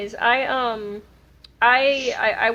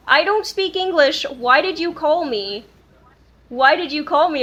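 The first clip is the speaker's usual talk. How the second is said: retold caller; 2 semitones higher than usual. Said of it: "he specifically said in English, without an accent".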